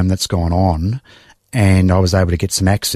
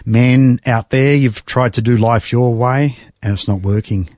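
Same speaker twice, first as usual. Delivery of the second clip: pastor's altar call; 3 semitones higher than usual. Retold or imitated. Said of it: "the pastor's saying".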